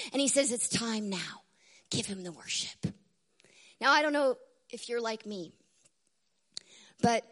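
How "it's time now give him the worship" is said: low, hushed command; quiet, reverent call to worship; soft summons. Acted. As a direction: drop low and soft, with solemn weight. Voicing the throne's summons softly.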